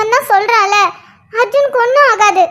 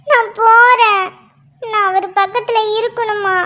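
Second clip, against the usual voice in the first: crying. Acted. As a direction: sob out that she must go to him. Wife desperate about injured husband. (அழுதபடி உடைந்த குரல்)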